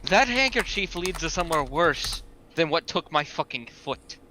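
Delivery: understated grave warning; dead serious. Acted. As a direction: warn them in all seriousness, in character. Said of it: "all seriousness".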